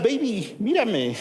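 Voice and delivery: mock sweet talk. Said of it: "En otras palabras".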